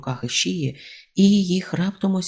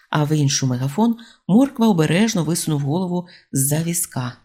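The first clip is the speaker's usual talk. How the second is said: plain reading voice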